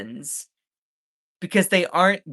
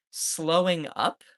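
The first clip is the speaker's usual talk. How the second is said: slow, disbelieving "Slowing up?" with a rising question; incredulous; 3 semitones higher, slower than usual. Retold or imitated. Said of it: "I'm like, "Wait a minute".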